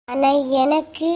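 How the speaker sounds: slow, drawn-out mimicry of a demanding old woman, ending on a rising தான்; lightly voiced fussy mother-in-law, sing-song and slow; mocking the mother-in-law. Daughter-in-law mocking her mother-in-law's idli demand to the neighbour, slow and sing-song. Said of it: "கிளவி ஆட்டத்தை ஆரம்பிப்பேன்னு".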